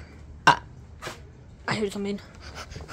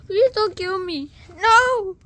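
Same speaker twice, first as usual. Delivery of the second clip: mock pleading; 8 semitones higher, 8 dB louder, slower than usual. Caught, begging the killer.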